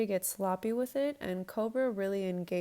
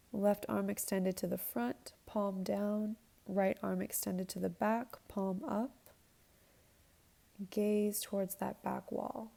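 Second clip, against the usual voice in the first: yoga instructor cueing. Acted. Leads a yoga flow.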